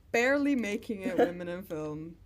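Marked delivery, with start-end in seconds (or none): 0.1-1.2 laughing. Real, not acted. Repeating slogan for laughs.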